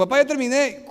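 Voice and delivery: a hint of a cheerful child; little boy voice. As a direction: chirp it like a six-year-old.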